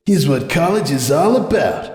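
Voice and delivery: Hoops musing. Acted. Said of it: "Hoops thought".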